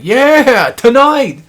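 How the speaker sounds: loud, high, stretched-out cheer; Carl whooping. Retold or imitated. Carl popping up under the dome, whooping excitedly. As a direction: holler it with party gusto. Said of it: "and he's like".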